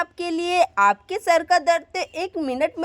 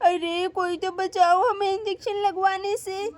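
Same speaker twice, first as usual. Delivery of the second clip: scared pleading; 2 semitones higher, 3 dB quieter than usual. Acted. Girl fears injection coming.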